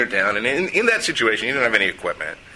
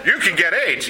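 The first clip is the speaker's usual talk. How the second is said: higher, mock-alarmed gawker voice; gawking New Yorkers; 10 semitones higher than usual. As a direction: imitate nosy bystanders gasping at the blood. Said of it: "a bunch of New Yorkers are going".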